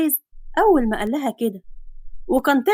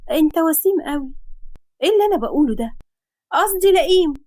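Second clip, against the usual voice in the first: put-on dreamy girl slipping; 4 semitones higher than usual. Girl staring at him dreamily, then flustered. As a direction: blurt then correct. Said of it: "وهي سرحانة وقالت".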